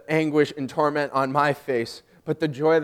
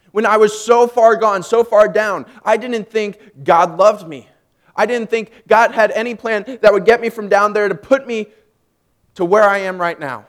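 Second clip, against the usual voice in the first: loud, raised preaching voice; impassioned testimony; 7 semitones higher, 11 dB louder than usual. Real, not acted. Preacher in training telling how far down they were, impassioned testimony. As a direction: build conviction with emphatic phrases.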